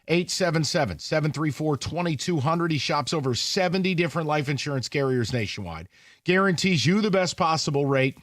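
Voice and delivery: steady, measured sponsor pitch; host reading a live commercial; radio ad read. Real, not acted. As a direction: sell it straight to the listener. Reads a sponsor ad.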